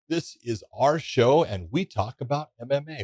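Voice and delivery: far from the mic; distant, faint off-mic voice; barely audible. Real, not acted. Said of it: "I can barely hear you".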